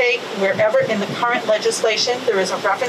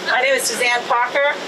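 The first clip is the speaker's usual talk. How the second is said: a bit louder, a touch firmer; 2 semitones higher than usual. Shown as a demonstration. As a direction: say it up, more projected. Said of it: "give us that angry mom voice".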